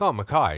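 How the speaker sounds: "Mackay" as muh-KYE, rhyming with eye; British pronunciation. Retold or imitated. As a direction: say "Mackay" the Scottish way, ending like eye. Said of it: "a Scottish person or a person from the U K would be like".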